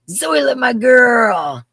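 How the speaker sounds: high, loud, drawn-out shout-out; calling out. Real, not acted. Host greets her girl on the stream, calling out long and loud. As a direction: stretch the name and holler it.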